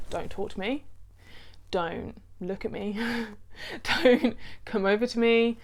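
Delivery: mock snappy keep-away warning, mostly soft; half-playful hands-off order; irritable keep-away. To her partner, imitating her own irritable warning. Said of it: "Did you like my impression?".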